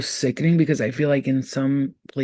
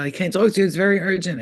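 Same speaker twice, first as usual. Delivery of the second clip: mocking imitation; 4 semitones higher, 3 dB louder, faster than usual. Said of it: "when people say stuff like that".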